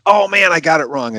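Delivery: high-pitched self-reproach; hammed-up regret at a blunder; mock dismay. Doctor's dismayed thought, acted out.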